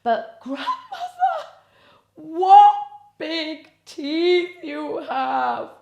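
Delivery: put-on high, slow, frightened girl; quivering voice. A narrator's reading. Girl facing the wolf's teeth, high quivering fear. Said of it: "her voice quivering slightly".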